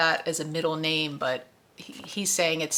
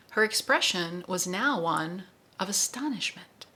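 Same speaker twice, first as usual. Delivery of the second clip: read-aloud excerpt, figures lightly voiced; story narration with voices. A narrator's reading. Host reads Roland and Susanna to listeners, story narration. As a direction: perform the novel scene for the book club.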